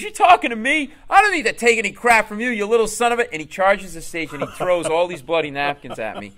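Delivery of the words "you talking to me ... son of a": loud, high belligerent tirade; acted furious challenge; snapping angry heckler. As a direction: lash out as the offended tough guy. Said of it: "he snaps".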